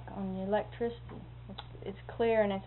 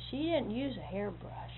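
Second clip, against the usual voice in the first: hushed whisper; 6 dB quieter than usual. Retold or imitated. Secret about aunt's punishment.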